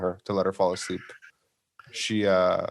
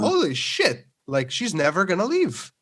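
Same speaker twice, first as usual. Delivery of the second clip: mock panic; 6 semitones higher, slower than usual. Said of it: "I was like".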